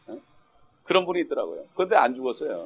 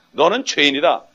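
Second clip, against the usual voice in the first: a louder, firm declaration; acted accusing call; bold proclamation; 6 dB louder than usual. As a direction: cry it out fearlessly at the listener. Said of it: "이렇게 외칠 수 있어야만".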